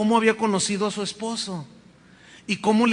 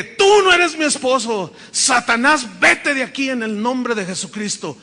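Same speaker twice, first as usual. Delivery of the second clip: loud, commanding rebuke, higher pitched; forceful rebuke; 3 semitones higher, 5 dB louder than usual. Retold or imitated. Widow ordering Satan away from her home, loud and commanding. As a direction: cast the spirit out with authority.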